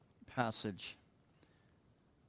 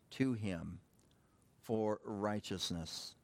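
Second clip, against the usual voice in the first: slow, deliberate Bible reading; measured declaiming to a congregation; scripture reading. Acted. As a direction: read each phrase out with weight and pauses. Reads scripture aloud.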